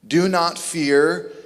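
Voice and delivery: "Do not fear." drawn out slowly, rising at the end; slow rising repeat. Shown as a demonstration. Preacher repeating the command a third time, slow and rising. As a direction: stretch it out and lift the end. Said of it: "he will say it three times".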